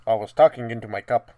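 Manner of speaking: muffled, boomy cup voice; talking into a cup. Real, not acted. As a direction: speak into a cup. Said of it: "You sound like you're in a tin can now".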